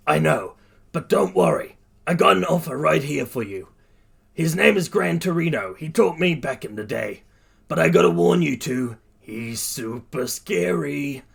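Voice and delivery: reassure, then warn, as a big hero; reassuring hero. Acted. All Might reassures, then warns.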